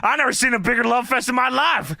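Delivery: half-yelled mock outrage; mock yelling. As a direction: retell a wrestler's outburst with mild force. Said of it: "he's just yelling".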